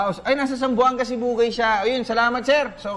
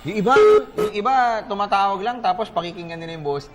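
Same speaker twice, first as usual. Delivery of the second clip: laughing while talking; 3 dB louder than usual. Real, not acted. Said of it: "Boses mo".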